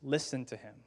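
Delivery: slow, solemn voice from the sky; lightly voiced divine pronouncement, drawn out; the Father. The Father speaking from the sky, solemn and slow. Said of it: "the voice of the Father".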